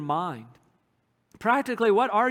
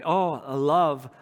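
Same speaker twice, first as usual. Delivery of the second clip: lower, slower, heartfelt; tender devotion; 6 semitones lower than usual. Acted. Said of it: "Oh, I love the Word of God".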